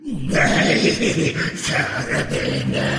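a worried troll protesting; alarmed troll. Acted. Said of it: "sa trollet".

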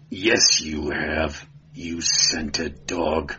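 low, slow snarl. Acted. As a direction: spit the insult out. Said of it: "snarled the Cimmerian".

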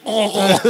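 drawn-out mock moan; imitated moan in accent. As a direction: imitate her long moaned "oh". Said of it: "But in her accent, she was like".

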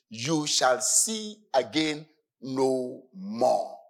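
slow, drawn-out prophetic declaration; slow solemn proclamation; Moses proclaiming. Acted. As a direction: let Moses hold his people steady, slowly. Preacher voices Moses' prophecy.

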